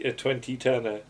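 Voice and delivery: ordinary delivery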